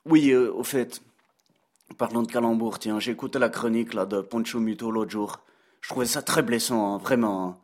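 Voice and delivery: put-on a light, joking Belgian accent; mocking chronicle in a Belgian accent; Brad Pitt's Belgian accent. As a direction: play a Belgian columnist teasing his hosts in his Belgian accent. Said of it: "comme vous pouvez l'entendre à mon accent".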